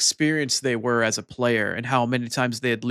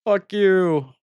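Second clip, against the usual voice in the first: higher, mock anguish breaking into laughter; laughing lament; 6 semitones higher, much slower than usual. Streamer cursing her own bot, laughing lament. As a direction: curse the bot through giggles. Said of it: "And it was just like".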